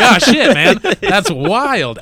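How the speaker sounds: loud, high mock shock; retelling his own stunned reaction. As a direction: blurt it out surprised. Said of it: "And I was like".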